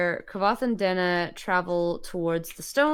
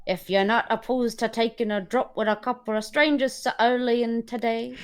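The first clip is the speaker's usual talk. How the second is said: country dialect slipping into Cockney; higher, a bit of Cockney; slightly Cockney accent; 5 semitones higher than usual. Acted. Reader offering strangers a drink, accent drifting Cockney. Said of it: "you were going Cockney a bit".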